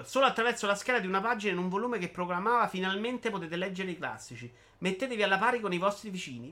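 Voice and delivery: slightly lifted, emphatic reading voice; animated monologue reading. Acted. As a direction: declaim it like a public proclamation. Legge il monologo di Bitty. (lettura enfatica di un monologo)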